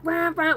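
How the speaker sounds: high dirt-bike revving noise; imitated engine revs. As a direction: mimic bikes roaring round a camp.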